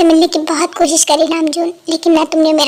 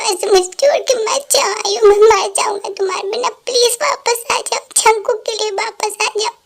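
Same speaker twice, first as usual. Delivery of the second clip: tearful pleading; 4 semitones higher than usual. Acted. Husband begs dead wife to return.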